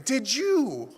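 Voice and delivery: loud, high, forceful question; emphatic rebuke. Retold or imitated. Preacher repeating the Lord's two words, emphatically. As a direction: drive the two words home to the room.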